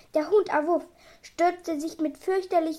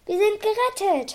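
high, joyful exclamation; joyful relief; 7 semitones higher, 4 dB louder than usual. A narrator's reading. Doctor to his animals on finding a ship, joyful cry. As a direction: rejoice out high, voice lifted. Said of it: "freute sich der Doktor".

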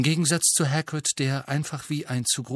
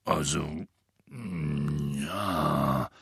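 worried Hagrid; 8 semitones lower, 4 dB quieter, much slower than usual. Acted. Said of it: "antwortete Hagrid besorgt".

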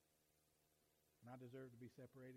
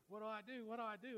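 high, loud, acted-out alarm; retold panic; 8 semitones higher, 8 dB louder than usual. Preacher recalling realizing he was a sinner, acted panic. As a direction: re-enact a panicked plea. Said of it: "it was a panic".

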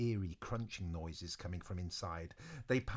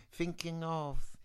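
echo; 5 semitones higher, 3 dB quieter than usual. Acted. Narrator demonstrates the echo wizard, fading repeats. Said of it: "So he should go".

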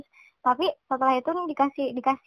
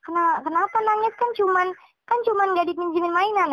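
put-on a bit higher, dismissive scolding of a crying child; judging tone; 5 semitones higher than usual. Shown as a demonstration. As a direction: brush off the tears as silly. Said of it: "melarang terus kita judge gitu". (nada menghakimi, meremehkan)

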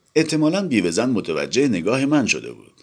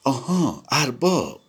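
lightly voiced widow, higher and gentle; 6 semitones higher than usual. Widow gently invites the boss into her garden. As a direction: soften into an inviting welcome. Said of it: "با لحنی ملایم گفت".

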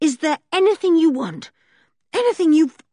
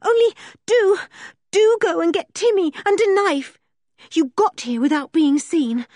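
high, louder, desperate pleading; wild urgency; 12 semitones higher, 5 dB louder than usual. Acted. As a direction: promise anything, frantic. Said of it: "said George wildly".

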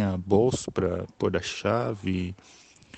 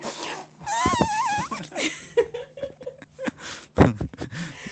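crying with laughter. Real, not acted. Cracking up at imitation.

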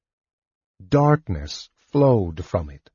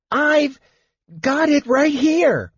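very high, excited little voice; Tasselhoff the kender; 3 dB louder, slower than usual. A narrator's reading. Kender runs up with his rescue object, high excited. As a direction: pitch it way up, eager and triumphant. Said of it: "The elder Kender was puffing".

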